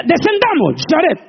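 high, loud playful divine call; mock God speaking. Preacher joking that God speaks to Jared, mock divine voice. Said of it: "Y dice".

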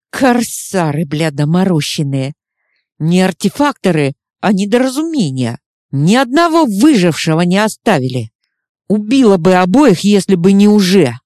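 loud, furious rant; angry. Acted. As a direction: snap it out in fury. Chuma raging at pirates.

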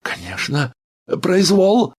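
high, loud agreement, swept up in rage; doctor joins the patient's outrage shouting; emboldened cry. A narrator's reading. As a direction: shout it along with him. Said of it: "подбодряемый криком".

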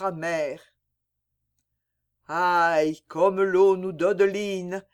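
mourante, posée puis exaltée vers la fin; voix lente. Acted. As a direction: une jeune fille qui voit déjà le paradis. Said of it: "d'une voix lente". (Mireille mourante répond à Vincent d'une voix lente)

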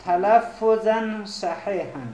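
drawn-out, careful reading for note-takers; measured classroom dictation; slow dictation. Shown as a demonstration. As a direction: dictate it slowly, syllable by syllable. Dictating phrase to students.

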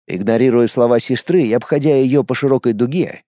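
ordinary delivery

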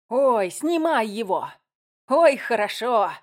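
slow, high, drawn-out relish; moaning with delight. A narrator's reading. Director relishes the row on camera, moaning. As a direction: groan happily over every word. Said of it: "постановала Рудольф".

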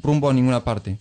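measured storyteller's reading over music; calm, deliberate reading of a Galeano piece; literary reading. Acted. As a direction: read it like a short chronicle. Reads a Galeano text over music.

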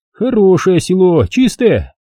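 high, slow, relishing notary voice; greedy notary savoring the price. A narrator's reading. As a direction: smack your lips over it like a greedy official.

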